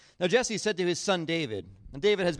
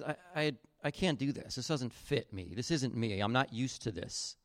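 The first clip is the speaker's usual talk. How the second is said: softer, dropping into an uneasy murmur; a youth uncomfortable in borrowed armor; quiet reluctance; 5 semitones lower, 7 dB quieter than usual. Retold or imitated. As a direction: say it softly, as if the gear feels all wrong. David rejects the heavy armor.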